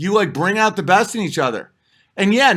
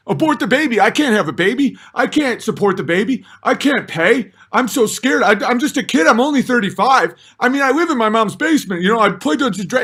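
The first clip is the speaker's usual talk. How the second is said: higher, hurried whiny excuses; mock scared man-child; 3 semitones higher, faster than usual. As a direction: imitate a man ducking responsibility, pitched up. Mimicking scared, immature men.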